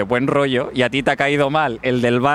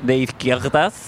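put-on French accent; 3 semitones lower than usual. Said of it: "tengo un acento raro de Francia".

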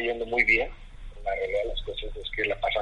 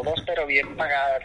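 retold doubtful echo; 3 semitones higher than usual. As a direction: echo the offer back, mildly sceptical. Echoes Alex's offer back, doubting it.

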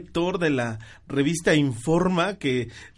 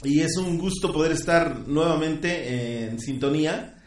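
processed like a radio alien; 3 dB quieter than usual. Real, not acted. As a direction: voice through an alien effect. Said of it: "me están escuchando como voz de extraterrestre". (voz de extraterrestre con efecto)

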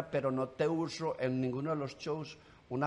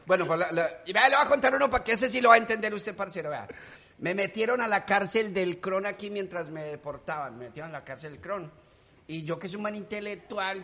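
swagger through it like a Medellín malandro telling his story; Medellín street-kid character; 5 dB louder than usual. Acted. Comedian slips into his street character for the deportation joke, brash. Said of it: "Ese es el puntudo".

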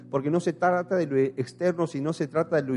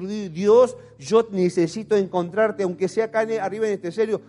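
raised, insistent plea to God; retold anguished prayer; 3 semitones higher, 4 dB louder than usual. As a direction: cry out to God, reenacting a desperate prayer. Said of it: "me pongo a llorar y empiezo a hablar con Dios y me empiezo a enojar". (súplica angustiada a Dios, recreada)

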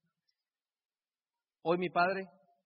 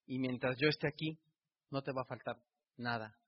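tearful promise; 3 semitones lower, 4 dB quieter than usual. Retold or imitated. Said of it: "yo con lágrimas en los ojos le dije".

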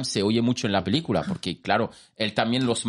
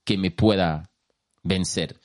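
lightly voiced slow proclamation; Black Adam boast; 3 semitones lower, slower than usual. Fan retelling Black Adam's challenge, slow lightly acted boast. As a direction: let it drop lower, pausing between phrases. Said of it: "Black Adam dice".

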